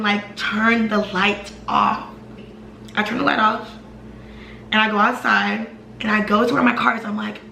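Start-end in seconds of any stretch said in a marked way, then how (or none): 0.4-2.1 slow, deliberate mock order, each word spaced out; imitating a snapped order, drawn out without shouting; retold snapping. Boyfriend snapping at her about the light, slow retold snap. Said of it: "now he's snapping".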